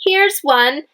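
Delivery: high excited discovery; delighted here's one; excited exclamation. Shown as a demonstration. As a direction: announce it like a happy find. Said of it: "exclamation mark at the end".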